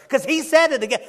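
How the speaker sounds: loud, high, laughing; tickled preacher laugh; laughing exclamation. Real, not acted. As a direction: laugh it out, delighted.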